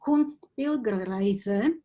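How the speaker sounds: "Kunstpilgerreise" said slowly in German, rising at the end; German pronunciation. Shown as a demonstration. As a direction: pronounce "Kunstpilgerreise" the German way, drawn out. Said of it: "how it sounds in German".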